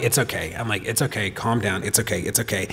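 soothing. Retold or imitated. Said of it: "I'm, like, de-escalating him".

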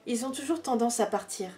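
measured poem reading with long pauses between verses; poetry reading. Acted. Reading favourite poems aloud to viewers, measured poetry recital.

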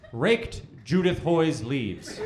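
slow deadpan read. Retold or imitated. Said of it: "All they said on it was".

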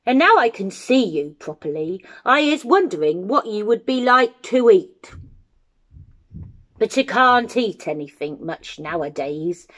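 quick musing, easing into regret; old giant eyeing a meal, then resigned; old toothless giant. Acted. Old giant wonders how Jim would taste, musing.

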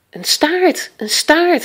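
high, excited exclamation; excited boy's high-pitched call. A narrator's reading. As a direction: cry out an excited discovery. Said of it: "riep Joris uit".

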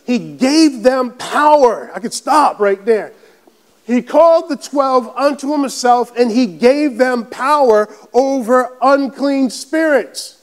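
slow, drawn-out scripture proclamation; emphatic preaching. Real, not acted. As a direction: preach it, leaning on the key words.

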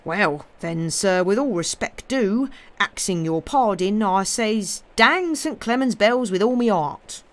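homely dialect, respectful then emphatic; lightly voiced countryman building to a mild curse; rustic companion, indignant. Job begs pardon and curses the bells, rustic indignation.

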